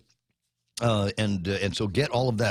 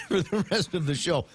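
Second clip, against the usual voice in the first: laughing; 5 semitones higher than usual. Real, not acted. Laughing at own joke.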